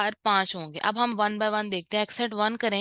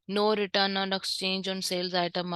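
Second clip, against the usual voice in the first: slow dictation; much slower than usual. Shown as a demonstration. Teacher dictates banner text.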